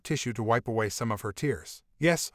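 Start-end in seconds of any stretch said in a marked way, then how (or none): 2.0-2.3 a sarcastic, teasing yes; mocking. Husband mocking his wife over her affair, sarcastic yes. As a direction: toss it back with mockery. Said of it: "I replied mockingly".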